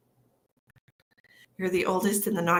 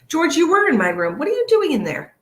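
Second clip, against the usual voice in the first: high, loud laughing pet voice; sing-song at the naughty pet; pet talk; 9 semitones higher, 6 dB louder than usual. Real, not acted. Owner calling out to George in her room, high and laughing.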